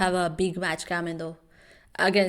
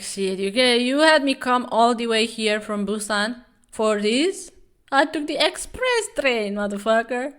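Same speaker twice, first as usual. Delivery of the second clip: higher, exasperated complaint; voicing Kim Dan; 4 semitones higher, 4 dB louder than usual. Kim Dan complaining to the champion, higher exasperated voice. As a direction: complain like you were dragged across the country. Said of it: "Kim Dan is like".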